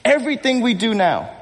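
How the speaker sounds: heroic movie line. Acted. Pastor prompting the congregation with Maximus's line, heroic movie line. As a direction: start the famous line, leaving it open for the crowd. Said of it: "Maximus says".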